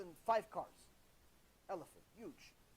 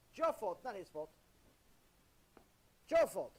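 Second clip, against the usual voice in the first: louder, pointed scolding; loud rebuke; 7 dB louder than usual. Real, not acted. Rabbi blaming the wife for allowing it, loud rebuke. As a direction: press the blame home loudly.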